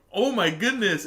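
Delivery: high, loud, swooping exclamation; exaggerated imitation of astonishment; mock shock. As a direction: exclaim in hammed-up horror. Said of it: "and they're like".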